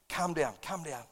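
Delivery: low, soft self-soothing; soft, low reassurance to oneself; calming self-talk. Retold or imitated. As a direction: talk yourself down under your breath. Retells calming himself down.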